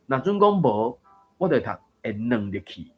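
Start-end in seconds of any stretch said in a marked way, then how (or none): 1.4-2.9 软 in 会软入去 read light, in neutral tone; 软 said neutral and unstressed. Shown as a demonstration. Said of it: "迄软就是算轻读". (软入去 轻读)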